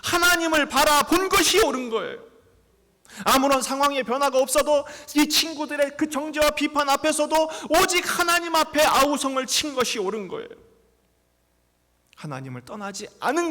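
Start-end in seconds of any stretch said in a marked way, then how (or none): 0.0-10.5 much higher, much louder impassioned preaching; preaching at full force. Acted. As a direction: preach the climax with all you have. Climax over music.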